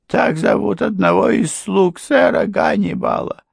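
high-pitched wife's voice. A narrator's reading. Wife confronts the stranger about the name, high voice. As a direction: lift it high and press it.

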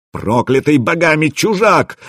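high, aggrieved narrated yell; hysterical wail. A narrator's reading. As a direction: wail the curse in outrage. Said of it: "завопил Расмус".

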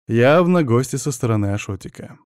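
plain reading voice

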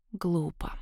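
тихо, почти беззвучно роняя слово; бросить слово вполголоса, презрительно; шёпот призрака. A narrator's reading. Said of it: "шепнуло привидение". (призрак тихо шепчет героине)

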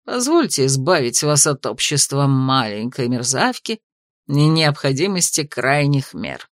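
measured menace under formal words; cold investigator. A narrator's reading. Royal investigator coldly addresses the mistress, low and sardonic. Hazarl's voice.

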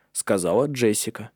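plain reading voice

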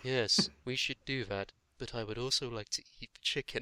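a hint of a cartoon puppet; squeaky rubber duck. Second puppet's reply.

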